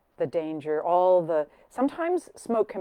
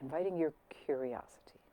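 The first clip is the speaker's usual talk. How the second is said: guided meditation. Real, not acted. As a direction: ease listeners inside, fading toward a hushed close. Begins guided breathing meditation.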